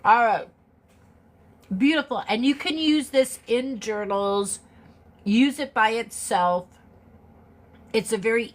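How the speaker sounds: eating chocolate. Real, not acted. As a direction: mouth full of chocolate. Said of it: "I gotta put a piece of chocolate in my mouth".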